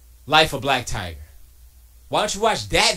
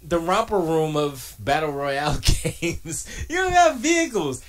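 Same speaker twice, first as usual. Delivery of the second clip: laughing; 4 semitones higher, 4 dB louder than usual. Real, not acted. Laughing at Fortnite.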